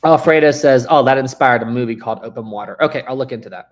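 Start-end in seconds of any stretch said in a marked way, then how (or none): 0.9-2.8 reads the chat out loud and bright; projecting to the stream; loud chat reading. Real, not acted. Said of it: "reading chat loudly".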